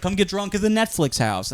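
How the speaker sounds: high-pitched mock promo voice; mock sales pitch. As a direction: pitch it like a cheesy invitation, up high.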